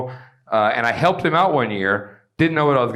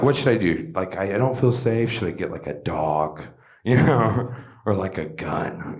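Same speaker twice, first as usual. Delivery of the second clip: scared couple; 8 semitones lower, 4 dB quieter than usual. Retold or imitated. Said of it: "And they're like".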